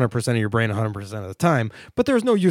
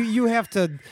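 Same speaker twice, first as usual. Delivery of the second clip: put-on Boston accent; 7 semitones higher than usual. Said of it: "Your Boston accent?".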